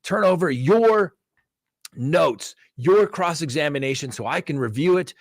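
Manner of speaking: upset judge. Retold or imitated. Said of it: "He was so upset with me".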